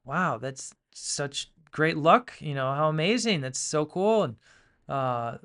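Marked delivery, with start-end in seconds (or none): 0.1-4.2 townsfolk cheering. Retold or imitated. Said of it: "and they go".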